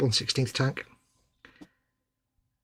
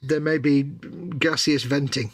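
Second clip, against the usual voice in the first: mock-formal announcement; slower than usual. Joking about stretching noises.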